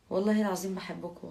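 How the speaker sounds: said out loud and strong, والله العظيم punched. Real, not acted. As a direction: declare it loudly to the viewers. Emphatic vow of love to viewers. (بصوت عالي ومؤكد)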